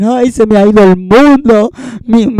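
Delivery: a lightly voiced, hammed-up lament; mock dramatic grief. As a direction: sigh it like a fake tragic mourner. Mocking overdramatic mourning.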